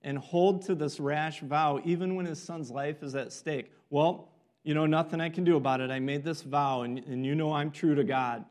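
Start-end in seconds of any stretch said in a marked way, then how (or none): 3.9-8.4 mock pious. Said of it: "Saul's gonna act very pious".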